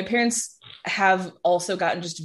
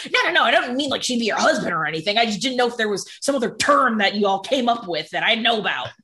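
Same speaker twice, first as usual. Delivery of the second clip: hasty backtracking; 4 semitones higher than usual. Retold or imitated. Dad hastily backtracks.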